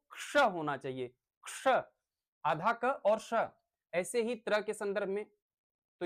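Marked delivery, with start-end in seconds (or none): 0.1-1.7 "क्ष" said carefully as half क joined to श; शुद्ध उच्चारण. Shown as a demonstration. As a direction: articulate "क्ष" as one crisp k-sh cluster. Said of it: "इसका शुद्ध उच्चारण तो". ("क्ष" का शुद्ध उच्चारण, आधा क और श मिलाकर)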